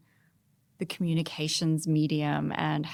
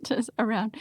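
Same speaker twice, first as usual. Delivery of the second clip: playful whisper; 5 semitones higher than usual. Pretend. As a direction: whisper it like a little secret. Joking it may be secret.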